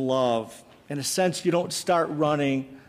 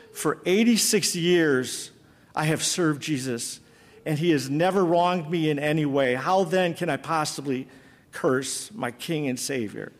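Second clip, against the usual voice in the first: calm reply. Acted. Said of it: "He then replied calmly".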